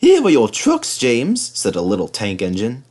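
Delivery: little tank engine taunting James, high and cheeky; cheeky teasing. Acted. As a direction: tease him about the bootlaces. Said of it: "he ran off laughing rudely".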